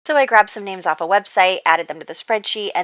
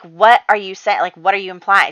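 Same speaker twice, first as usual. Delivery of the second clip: louder, offended demand for an explanation; angry retort; 8 dB louder than usual. Retold or imitated. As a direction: snap back, insulted by the accusation. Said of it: "She was very angry".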